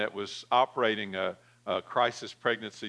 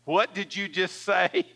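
higher, louder sharp demand; 7 semitones higher, 3 dB louder than usual. Retold or imitated. Woman to nurse, a sharp disbelieving demand. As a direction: snap back in disbelief. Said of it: "Like that".

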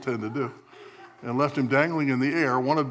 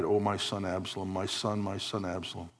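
mild mournful cry; 2 semitones lower than usual. Retold or imitated. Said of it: "he cried".

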